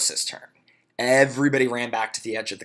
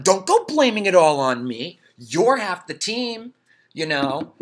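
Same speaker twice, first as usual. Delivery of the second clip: 1 mild indignant; 7 semitones higher, 6 dB louder than usual. Acted. Ron protests.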